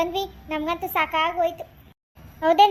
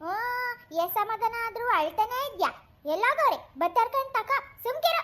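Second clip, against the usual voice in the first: exasperated, higher-pitched grandma; scolding; 5 semitones higher than usual. Acted. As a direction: hush a child who won't stop crying. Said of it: "ನೀವು ಬೇರೆ ಬೈತಾನೆ ಇದ್ದೀರಲ್ಲ". (ಗದರಿಸುತ್ತಾ)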